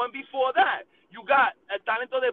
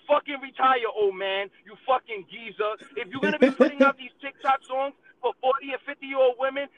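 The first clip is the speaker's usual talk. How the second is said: heated rant; 3 dB louder than usual. Real, not acted. Ranting at Daddy Yankee.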